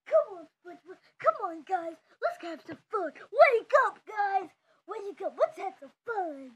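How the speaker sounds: loud, pushy calls to come and play; loud wake-up call. Pretend. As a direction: rouse the whole room loudly. Patrick waking everyone to play.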